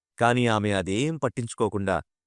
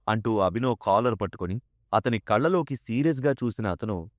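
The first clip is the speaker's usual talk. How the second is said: ordinary delivery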